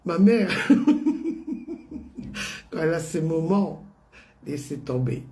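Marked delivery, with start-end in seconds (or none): 0.5-2.7 long breathy laugh; laughing fondly at her mother; real laugh. Real, not acted.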